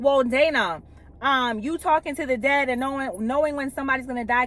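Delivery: lightly mock a judgmental churchgoer, rushing the end; mock Bible thumper. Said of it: "a Bible thumper is gonna be like".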